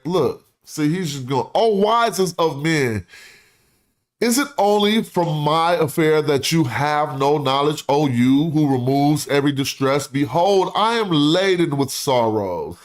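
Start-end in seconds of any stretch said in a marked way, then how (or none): 1.5-12.8 dramatic orator reading. Acted. Reads ancient plea aloud.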